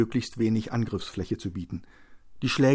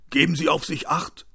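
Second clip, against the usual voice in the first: higher-pitched parting call; called after; 6 semitones higher, 4 dB louder than usual. Acted. Cashier to the injured man walking off, called after him. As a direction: call it out after someone leaving. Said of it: "riefen der Kassierer nach".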